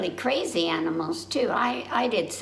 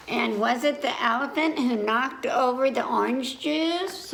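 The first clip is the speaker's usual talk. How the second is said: grandma asking; 4 semitones higher than usual. Acted. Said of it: "Grandma asked".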